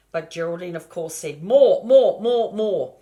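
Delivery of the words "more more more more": loud, high, insistent more; greedy piglet yelling more; demanding shouts. Acted.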